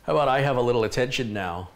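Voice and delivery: pushy pet asking to be noticed; lightly voiced needy dog; voicing the dog. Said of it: "He goes".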